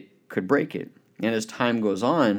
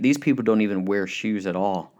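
mildly discouraged report; a touch of defeat in the voice; pessimistic salesman; 2 semitones lower than usual. Retold or imitated. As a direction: write it off as hopeless, understated. First salesman gives up on market.

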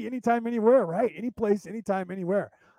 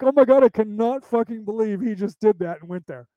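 mock shocked outrage, pitched up and louder; scandalized girls; 3 semitones higher, 5 dB louder than usual. Girls reacting to his crude joke, mock scandalized. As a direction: imitate appalled listeners, stressing each word. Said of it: "your girls are like".

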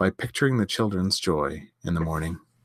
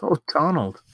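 gasping in wonder; 7 semitones higher than usual. A narrator's reading. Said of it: "she gasped".

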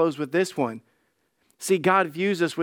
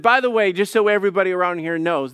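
proud proclamation; 3 semitones higher, 5 dB louder, faster than usual. Acted. Father proclaims to the crowd.

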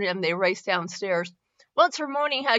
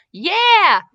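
high, loud cheer; excited kids yelling; 11 semitones higher, 9 dB louder than usual. A narrator's reading. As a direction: shout it with glee. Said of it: "the kids yelled".

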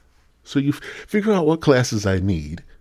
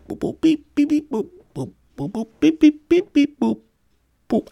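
very high robotic beeps and boops; alien talk. Retold or imitated. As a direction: beep like a toy alien, way up high. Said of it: "maybe they're talking alien".

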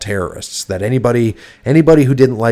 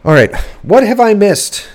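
excited; 9 semitones higher, 7 dB louder than usual. Real, not acted. Eager to move on.

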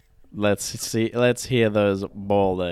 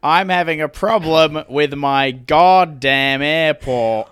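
slow, louder indignant complaint; angry customer; 3 semitones higher, 4 dB louder, slower than usual. Pretend. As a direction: lean on goddamn in annoyance. Playing angry Apple customer.

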